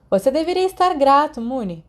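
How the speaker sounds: chamado alto e agudo, de longe do banheiro; chamando de dentro. Acted. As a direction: gritando de dentro do chuveiro. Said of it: "ele gritou de dentro". (grito alto vindo do banheiro)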